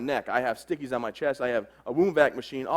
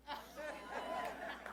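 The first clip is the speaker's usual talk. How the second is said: laughing; 12 semitones higher, 20 dB quieter, much slower than usual. Real, not acted. Laughing aside after a fake quote.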